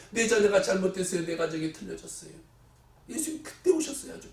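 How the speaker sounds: a complaining churchgoer, lightly voiced; grumbling believer. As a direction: whine to Jesus like a grumbler. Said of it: "원망불평한 사람들 보세요".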